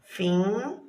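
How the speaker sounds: Finca split with a long pause inside; syllables separated. Shown as a demonstration. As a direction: dictate Finca as fin... ca. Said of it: "Ó, separado".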